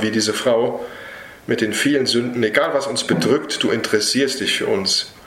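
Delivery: earnest spoken prayer to Jesus. Real, not acted. Preacher praying over the congregation at the end, earnest prayer. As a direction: pray it humbly and sincerely, addressing the Lord. Closing prayer after the sermon.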